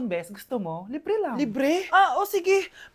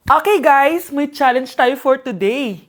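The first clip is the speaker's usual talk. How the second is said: loud vlogger opening with slowed delivery; vlogger intro; 4 semitones lower, 4 dB louder, slower than usual. Acted. Vlogger opens a phone stress test, loud drawn-out announcing. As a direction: announce it to your followers, stretching words.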